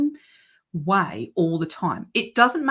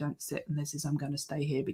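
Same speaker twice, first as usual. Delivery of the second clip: boring low monotone, much quieter; 3 semitones lower, 11 dB quieter than usual. Speaker showing how they could talk all the time, in a low, boring monotone. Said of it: "I could speak really low and just really boring".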